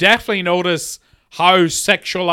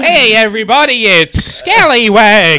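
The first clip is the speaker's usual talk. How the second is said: goofy character intro; 5 dB louder than usual. Pretend. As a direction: drag out the name like a cartoon mascot. Character intro voice, Scallywag bit.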